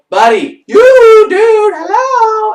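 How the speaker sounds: loud, high calls to get his attention; yelling for attention. Retold or imitated. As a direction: shout at him, he isn't listening.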